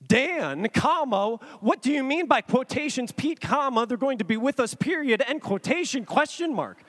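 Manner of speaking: acting out a disbelieving reply; incredulous. Pete typing back to best friend, mock incredulous.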